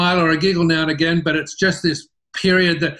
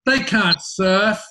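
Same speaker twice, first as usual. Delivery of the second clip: lightly voiced young surfers, slow and a bit higher; mocking surf kids; 4 semitones higher, slower than usual. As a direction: drag it out like scornful grommets mocking the ads. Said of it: "they all came out going".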